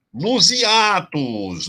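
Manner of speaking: high, slow stretch on "nos hiatos"; drawn-out announcement. Shown as a demonstration. Teacher announcing the sixth rule to the class, drawn-out announcement.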